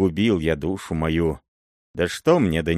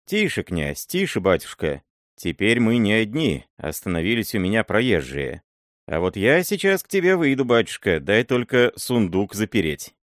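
put-on old miller pleading; 2 semitones higher than usual. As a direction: hush him nervously, an old servant begging. Miller hushing the angry prince.

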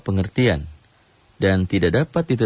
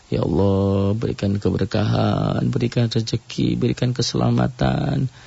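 earnest prayer. Shown as a demonstration. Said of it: "itu berdoa seperti itu".

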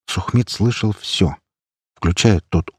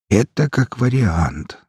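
put-on slow, soothing old man; calm him down gently; reassuring; 3 semitones higher, slower than usual. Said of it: "словно успокаивая". (успокаивающе)

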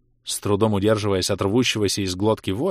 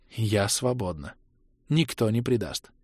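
softer, slow repeat of the words; soft dazed echo; 5 dB quieter than usual. Acted. Kira agrees with Mirta in a soft, slow echo. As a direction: echo it back quietly, as if entranced. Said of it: "согласно кивнула Кира".

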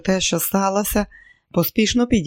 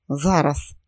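cold inner voice. Acted. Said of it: "голодний, холодний голос у мозку".

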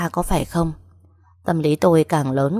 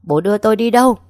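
crying out; 5 semitones higher, 6 dB louder, faster than usual. A narrator's reading. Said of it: "miệng không ngừng la hét".

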